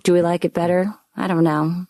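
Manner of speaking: blocked nose from a cold; stuffy cold voice; congested. Real, not acted. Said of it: "This one's kind of mysterious".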